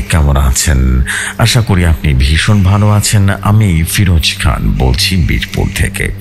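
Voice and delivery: plain reading voice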